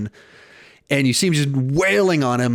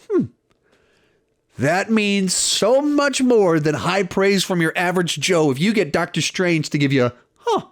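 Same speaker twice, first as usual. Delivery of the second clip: Doctor Strange impression; 5 semitones higher than usual. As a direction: play the pompous wizard giving rare praise. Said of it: "and he just goes".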